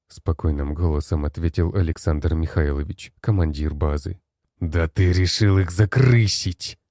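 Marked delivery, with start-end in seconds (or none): 4.6-6.8 slow, pressed hiss of suspicion; hissed accusation. Acted. Black-haired general hisses at the base commander, slow and spiteful. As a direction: spit the accusation out slowly through the teeth. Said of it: "прошипел черноволосый мужчина".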